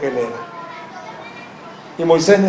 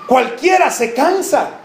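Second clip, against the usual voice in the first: preaching shout; 3 semitones higher, slower than usual. Acted. Preacher's climax line.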